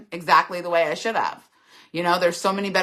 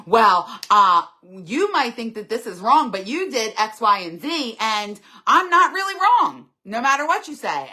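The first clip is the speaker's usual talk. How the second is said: defensive blame shifter; 3 semitones higher than usual. Retold or imitated. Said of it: "and the blame shifting".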